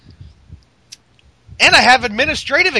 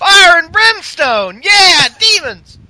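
hammed-up demon cheer; 3 semitones higher, slower than usual. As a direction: roar it out like a hellfire preacher. Hyping himself as demon Kane.

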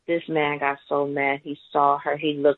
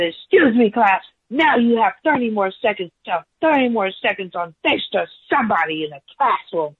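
imitating livid teacher; 7 semitones higher than usual. Teacher giving the class thirty more seconds, high mock command. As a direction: order the class around like a cross teacher, then ease off. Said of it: "He was livid".

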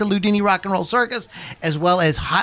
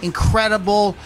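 ringmaster. Acted. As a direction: roll up the crowd like a circus host. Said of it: "I am your ring master".

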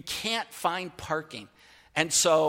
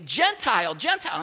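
retold yell; 3 semitones higher, 3 dB louder than usual. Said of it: "starts yelling at me".

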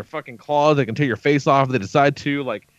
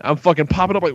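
ordinary talk, nothing marked

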